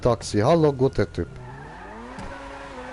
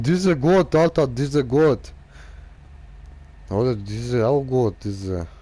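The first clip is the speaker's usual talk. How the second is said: mock broken German. Mock broken German car talk.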